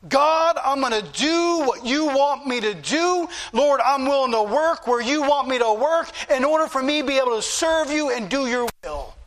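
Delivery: acted prayer, lifted at the start; lightly heightened pledge to the Lord; earnest vow. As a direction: call out to God in earnest surrender. Acted prayer of surrender to God.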